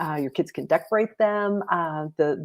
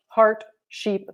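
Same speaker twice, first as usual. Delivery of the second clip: usual speaking voice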